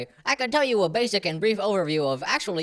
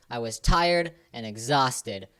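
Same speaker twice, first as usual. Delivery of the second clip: dramatically tired. Acted. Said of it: "I was dramatically tired".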